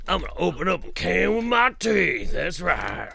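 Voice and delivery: loud, brash gun-toting mom; tough mom voice. Pretend. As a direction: play the tough mom, proudly. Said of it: "she's gonna go open a can with her teeth".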